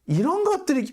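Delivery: high, exasperated cry; disgusted outburst. Real, not acted. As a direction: spit out contempt. Angry outburst at reporters.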